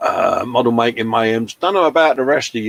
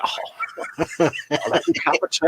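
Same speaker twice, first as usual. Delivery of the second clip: quick squeaky-fast little machine voice, a touch mocking; lightly voiced cheeky tea machine; 3 semitones higher, 4 dB quieter than usual. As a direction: play the chirpy teasmade asking for its brew. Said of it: "and it's like".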